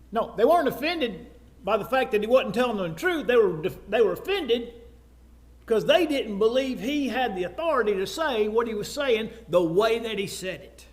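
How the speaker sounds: ordinary talk, nothing marked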